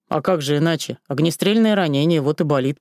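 rough male voice. Acted. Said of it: "грубым мужским голосом".

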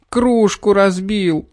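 high, slow sobbing cry; boy crying out about the broken mug. A narrator's reading. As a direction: wail it out. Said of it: "всхлипывая, крикнул Петр".

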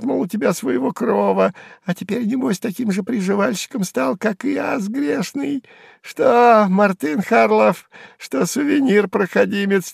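high, sneering squeal; high jeering hanger-on voice; spiteful jester, mocking. A narrator's reading. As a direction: taunt the humiliated old man. Сувенир mocks Харлов.

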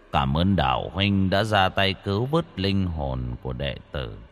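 monk's farewell echoing on the wind; serene monk. Acted. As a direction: speak like a calm old monk. Monk's voice echoes instructions.

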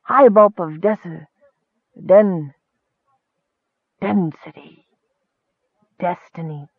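halting, dim-witted musing; groping for the word. A narrator's reading. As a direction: stumble slowly over it until it comes. Dozing Highbulp gropes for the word.

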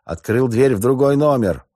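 loud, high shouted alarm; barking shout. A narrator's reading. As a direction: bellow it down the corridor. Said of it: "гаркнул капитан во весь голос".

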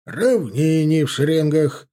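slow, loud barked order. A narrator's reading. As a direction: bark it down the ranks. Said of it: "рявкнул выскочивший перед ними офицер".

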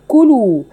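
كلوا whispered, lips rounded on the damma; whispered demo word. Shown as a demonstration. Teacher shows the damma in كلوا. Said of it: "انتبهوا يا أخوات لضمة الحروف".

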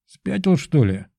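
mock bark; barked retort. A narrator's reading. Pigeon answering Belov's guess, barking. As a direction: snap back like a rude bird. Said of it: "гаркнул голубь".

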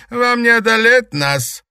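very high, loud warning; loud threat. A narrator's reading. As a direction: threaten them. Villain's final threat.

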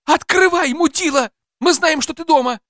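loud, high-pitched yell at a locked door; furious shouting. Acted. Wife demanding her daughter's captor open up, furious shouting.

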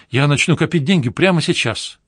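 ordinary delivery

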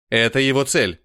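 put-on growled in a heavy Slavic accent. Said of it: "славянскому акценту".

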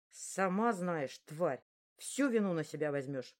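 slow, spat-out threat; through gritted teeth. Acted. Bully threatening into her ear, slow and gritted. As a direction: grind each word out slowly. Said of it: "процедили мне в ухо".

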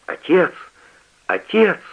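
high calls, mildly voiced; calling through the locked door, pitch up; crying out. A narrator's reading. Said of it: "с криком". (крик сына из запертого подвала, высоко)

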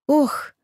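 короткий высокий стон от укола боли; резкое «ох» сквозь боль. A narrator's reading. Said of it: "простонала я". (вскрикнула от боли в руке, стон)

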